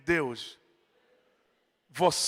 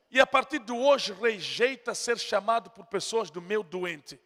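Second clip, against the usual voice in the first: ordinary talk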